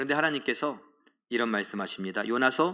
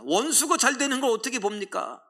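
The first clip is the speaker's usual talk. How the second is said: high, pained protest; indignant cry; 8 semitones higher than usual. Acted. Jonah cries out to God, high and bitter. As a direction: make it sound unbearable to watch.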